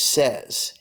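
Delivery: "says" with a short e, like "sez"; pronunciation demo. Shown as a demonstration. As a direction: say "says" to rhyme with "fez". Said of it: "the pronunciation is".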